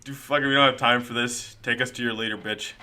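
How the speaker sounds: lightly voiced rude impatience. Magneto tells Sinister's guard to take them to his leader, mildly rude. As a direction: hurry them along, a little rude. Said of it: "is basically his tone".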